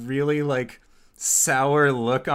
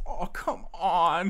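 high, drawn-out protest; exasperated whine; 7 semitones higher, slower than usual. Acted. Underling objecting as the boss eyes him, high exasperated whine. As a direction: whine it slowly, pitched up.

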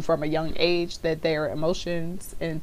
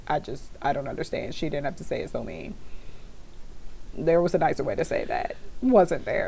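put-on hurt child; 3 semitones lower than usual. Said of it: "my mans was like".

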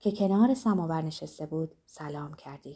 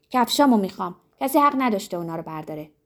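shouting; 4 dB louder, faster than usual. Acted.

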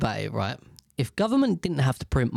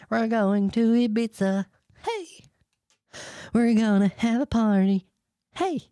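mock party cheer; 7 semitones higher than usual.

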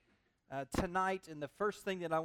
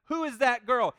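smitten Boaz; 4 semitones higher, 9 dB louder than usual. Retold or imitated. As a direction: belt it out like a man struck by her beauty. Preacher acts out smitten Boaz.

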